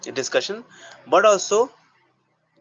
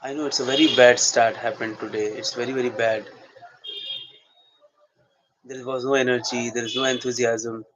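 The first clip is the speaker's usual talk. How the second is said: soliloquy; 2 semitones lower than usual. Shown as a demonstration. Actor to himself about a bad start, soliloquy. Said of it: "I'm right now going to do soliloquy".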